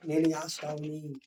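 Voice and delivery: slow, low, soft changed voice; disguised voice. Retold or imitated. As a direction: fake being his brother for the blind father. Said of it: "యాసం వేసి గొంతు మార్చి".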